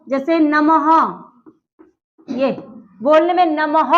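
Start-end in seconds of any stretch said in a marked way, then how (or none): 0.4-0.9 "नमः" ending in an audible ह; visarga as h. Shown as a demonstration. Teacher gives a visarga example, clear final ह in "नमः". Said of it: "ह ध्वनि आती है बोलने में". 3.5-3.9 "नमः" with the ः voiced as a clear ह; h sound at end. Shown as a demonstration. Teacher shows how visarga is spoken, audible ह closing "नमः". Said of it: "ह आ रहा".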